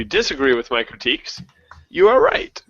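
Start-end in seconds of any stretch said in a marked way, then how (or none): 1.9-2.6 much higher, rising "you are right"; lifted punchline. Real, not acted. Reviewer telling those who disagree with his critiques, high rising concession.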